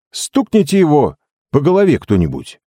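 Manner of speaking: high-pitched cry of protest; exclaiming. A narrator's reading. Jake urging someone to stop the hypnotist, high exclamation. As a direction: shout out to the room. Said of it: "воскликнул Джейк".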